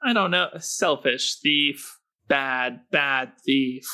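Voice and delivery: high, slightly whiny Carl. Acted. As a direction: complain in a high squeaky voice. Plays Carl.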